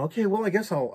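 casual, upbeat see-you; breezy sign-off. Retold or imitated. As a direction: wrap up the call lightly. Retold cheery phone sign-off.

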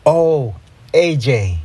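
slow, lovestruck sigh. A narrator's reading. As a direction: sigh the name dreamily, drawn out. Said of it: "I sighed".

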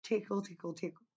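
mock ASMR repeat. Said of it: "I'm not about to repeat tickle".

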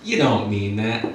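slow, lightly coy denial; mock flattered. Comic to a street stranger, mildly flattered. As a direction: draw it out slowly, a touch flattered. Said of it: "I was, like, a little flattered".

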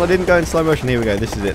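ordinary talk, nothing marked

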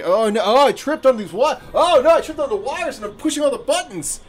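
high, hammed-up oh no as if tripping; squealing mock distress; fake clumsy panic. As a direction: play a klutz stumbling on purpose. Fake clumsy act tripping on wires.

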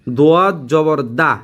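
দা with open aa after heavy দোয়াদ; wrong reading demo. Shown as a demonstration. Teacher showing students a mistake, wrong open vowel. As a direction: say দোয়াদ full, then a thin দা. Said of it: "দোয়াদের সাথে দা হবে".

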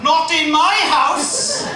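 slow, loud, high Welsh version; the same line in a thick Welsh voice; Welsh attempt. Comic tries the American line in Welsh, slow and loud. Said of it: "now, if I try that".

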